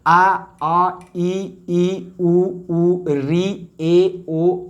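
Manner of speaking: each vowel sound said slowly and separately, आ आ ई ई; vowels recited one by one. Shown as a demonstration. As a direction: recite the vowel chart clearly, teacher style. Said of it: "स्वर वर्ण की जो संख्या है". (स्वरों का स्पष्ट उच्चारण)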